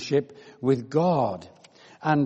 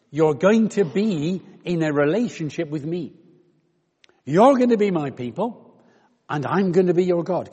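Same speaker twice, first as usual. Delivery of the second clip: fervent promise; 3 semitones higher, 5 dB louder than usual. Retold or imitated. Preacher voicing God's promise.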